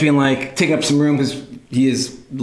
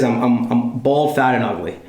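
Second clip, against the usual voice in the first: long pauses; 3 semitones lower than usual. Retold or imitated. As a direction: imitate dad's long gaps between words. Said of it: "has a long typical pause between words".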